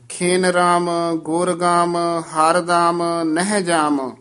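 ਖਿਨ ਰਾਮ through ਜਾਮ in one even flow, resting after ਜਾਮ; don't stop until ਜਾਮ; one phrase, then rest. Shown as a demonstration. Teacher models where to rest, unbroken up to ਜਾਮ. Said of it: "ਇੱਥੇ ਵਿਸਰਾਮ ਹੈ".

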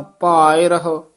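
ਭਾਇ, a slight break, then ਰਹੋ; slight dash between. Shown as a demonstration. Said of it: "dash ਜੀ ਵਿੱਚ ਦੇ ਕੇ ਉਚਾਰਨ ਕਰਨਾ". (ਭਾਇ ਤੇ ਰਹੋ ਵਿੱਚ ਹਲਕੀ ਡੈਸ਼)

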